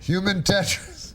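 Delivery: slow, booming announcer read; Ed McMahon. Retold or imitated. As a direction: stretch it out like a TV sidekick. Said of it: "I was doing an Ed McMahon".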